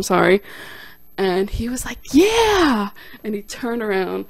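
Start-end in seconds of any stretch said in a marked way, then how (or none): 2.1-2.9 bright, much higher exclaimed yeah; mock cheerful Al Pacino; cheery yes. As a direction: answer with delighted enthusiasm. Al answers cheerfully.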